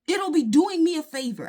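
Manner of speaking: defiant scoff. Real, not acted. Defiant rant about not caring.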